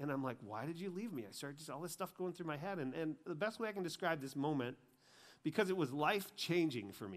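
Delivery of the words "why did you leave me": acted-out anger, delivered much quieter. Recounting crying uncontrollably, the speaker retells getting mad at God. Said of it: "I start getting mad at God".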